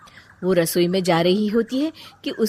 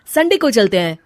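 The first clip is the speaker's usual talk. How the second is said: husband coaxing; 5 dB louder than usual. Acted. Husband voiced by narrator.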